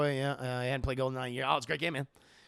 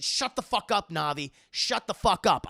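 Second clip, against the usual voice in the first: mock-irritated, raised voice; exasperated retort; 4 semitones higher, 6 dB louder than usual. Player answering a nagging game helper, exasperated. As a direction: snap back at a pest, higher and louder.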